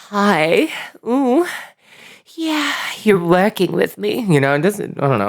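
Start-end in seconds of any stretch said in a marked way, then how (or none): 0.1-4.2 lightly put-on, raised voice; drawn-out, teasing mock come-on; guys' talk. Shown as a demonstration. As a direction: imitate a guy cooing hello. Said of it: "guys just talk like this sometimes".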